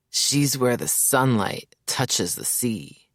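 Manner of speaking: slow, lovestruck musing; dreamy reverie. Acted. Mayers gazing at the sea describing Hope, slow and dreamy. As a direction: gaze out and drift into the words.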